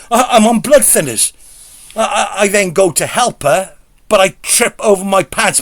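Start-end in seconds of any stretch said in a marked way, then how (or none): 0.1-1.3 rising panic. Retold or imitated. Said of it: "And she's panicking".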